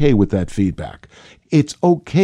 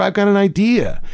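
higher-pitched mock eureka; having an idea; 8 semitones higher than usual. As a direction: imitate someone suddenly struck by an idea. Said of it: "when they have a great idea".

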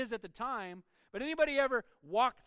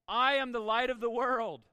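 a raised, ringing proclamation to the crowd; proclaiming loudly; 6 dB louder than usual. Retold or imitated. Jesus yells out to the festival crowd, loud proclamation. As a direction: call it out boldly like a preacher. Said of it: "and he yells out again".

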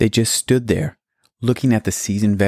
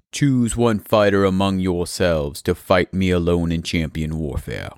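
giant's challenge; 2 semitones lower than usual. Acted. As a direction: call out like a towering warrior. Giant Goliath issues challenge.

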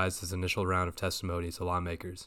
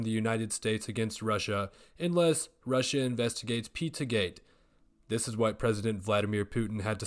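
hammed-up TV anchor voice; news anchor; 2 semitones higher than usual. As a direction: play a cheesy news reporter. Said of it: "News Before Clues Network".

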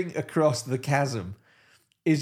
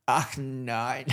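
put-on a weak German accent on Ach, nein; bad German accent. Toby Jones as Hitler in the bunker, bad German accent. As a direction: mutter it in a poor German accent. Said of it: "I'm not saying he's good at the accent".

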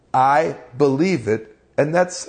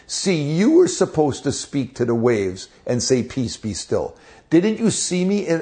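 higher, exasperated scolding; annoyed rebuke; 3 semitones higher than usual. Retold or imitated. Jesus scolds the apostles for not speaking to the waves, exasperated. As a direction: pile up the reproaches, fed up. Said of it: "Jesus was so annoyed with the apostles".

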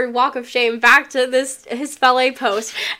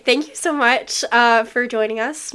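voice cracking. Real, not acted. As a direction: voice cracks mid-thank-you. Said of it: "My voice just cracked".

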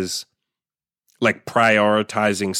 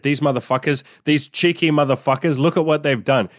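higher-pitched, hammed-up indignant rant; retold rant to his girlfriend, pitched up in mock indignation; mock outrage; 4 semitones higher than usual. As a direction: play up the outrage at the sneaky sales trick. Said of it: "And I turned to Imogen and I said".

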